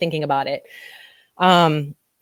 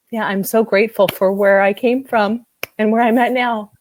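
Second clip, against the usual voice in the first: higher, tearful gratitude with a laugh; real happy tears; 4 semitones higher, 3 dB louder than usual. Real, not acted. Coach grateful for how far she came, happy tears. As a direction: speak through happy crying. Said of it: "these are happy tears".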